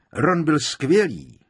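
high, loud, drawn-out praise; praising. A narrator's reading. Tonksová telling the others about Ron, praising. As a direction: praise him slowly and emphatically. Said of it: "prohlásila pochválně Tonksová".

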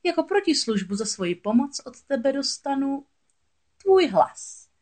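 high, theatrical witch demand; scheming sea witch. A narrator's reading. Witch naming her payment to Ariel, scheming.

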